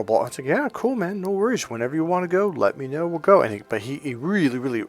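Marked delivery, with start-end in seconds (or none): 0.5-3.4 high, breezy acted agreement; easygoing agreement. Answering his burrito shop invitation, easygoing agreement. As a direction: go along with it, pitched up. Agreeing to eager friend's plan.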